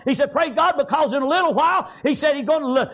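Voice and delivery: full-voiced, chanted sermon delivery; fervent preaching. Real, not acted. Preacher urging congregation to draw strength from God, fervent preaching.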